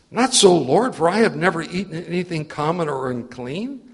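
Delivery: loud, proud "Not so, Lord" that stays self-assured; boastful refusal. Acted. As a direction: refuse God with boastful pride. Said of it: "he'd said it in a boasting voice at the beginning".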